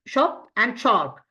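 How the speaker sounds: slow, careful demo of "shop and shark" with a clear "sh"; slow model. Shown as a demonstration. Teacher showing students how to say S H, slowly. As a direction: draw out "shop" and "shark" for learners. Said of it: "pronunciation of S H".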